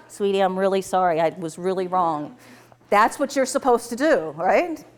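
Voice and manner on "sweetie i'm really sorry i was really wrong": apologetic. Acted. Acted husband apologising after rebuff.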